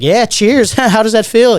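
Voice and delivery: high-pitched imitation of a taunting girlfriend; teasing retold taunt; mock jeering. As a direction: jeer along, pitched well up. Girlfriend jeers along in retold exchange.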